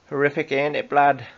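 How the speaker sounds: a bad stab at a Geordie accent; mock Geordie accent. Host mocking a Geordie accent on air. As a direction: try it the Geordie way, half-hearted. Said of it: "I can't do a Geordie accent".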